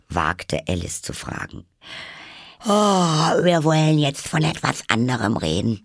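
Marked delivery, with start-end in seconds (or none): 2.7-5.8 loud, high yawn through the words. A narrator's reading. March Hare interrupts Alice in boredom, yawning. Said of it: "unterbrach sie der Faselhase gähnend".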